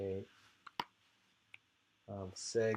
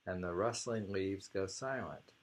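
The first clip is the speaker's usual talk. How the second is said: poem reading. Acted. Reads the poem aloud.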